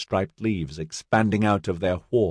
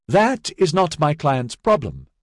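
affable; 8 semitones higher than usual. A narrator's reading. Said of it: "Master Cherrick said affably".

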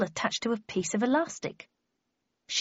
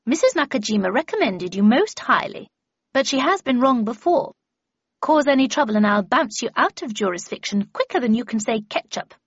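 put-on louder, forceful old mistress; brusque Miss Havisham; 3 semitones higher, 6 dB louder than usual. Miss Havisham threatens to bounce her apprentice out, brusque. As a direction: warn a pupil off with brisk contempt.

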